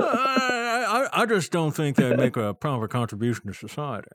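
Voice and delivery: lightly put-on rich conservative voice; a hint of a snooty old-money pundit; William F. Buckley. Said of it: "a cross between your rich guy voice and that conservative from the seventies".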